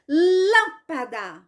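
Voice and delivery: "lâmpada" with a long, strong first syllable; stress on first syllable. Shown as a demonstration. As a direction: lean hard on the LÂM of "lâmpada". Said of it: "Qual é a sílaba mais forte?".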